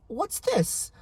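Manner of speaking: put-on high-pitched puzzled girl; put-on high, wondering kid voice; innocent little girl. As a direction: imitate a girl's innocent surprise. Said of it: "poor little innocent".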